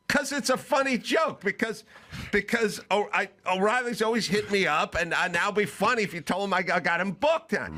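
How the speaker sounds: high, rushed explanation; exasperated explaining. Retold or imitated. Explaining the joke to Mike, high and exasperated. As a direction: explain it high and fast, out of patience. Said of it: "And I go".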